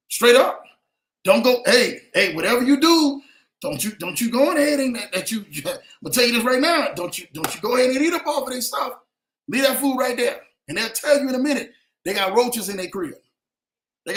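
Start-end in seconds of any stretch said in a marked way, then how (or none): 0.1-10.4 loud parent warning. Retold or imitated. Mock parent warning loudly.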